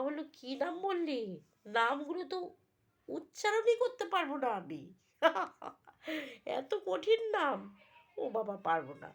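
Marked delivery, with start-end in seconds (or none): 1.8-9.1 higher, louder, laughing disbelief; exasperated father. Acted. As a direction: throw up your hands at the names. Father baffled by hard names. (অবাক হয়ে হাসতে হাসতে বলা)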